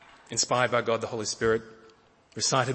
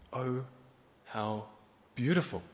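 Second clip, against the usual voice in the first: hushed, savouring "Oh... how... beautiful"; tender, lingering; 3 dB quieter than usual. Acted. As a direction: linger over "beautiful" like a lover in awe. Repeats with drawn-out pauses.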